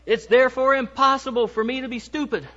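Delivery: a lightly put-on Southern accent, slowed down; mock Southern accent. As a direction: play a pompous husband in a weak Southern accent. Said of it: "with the best Southern accent that I can dream up".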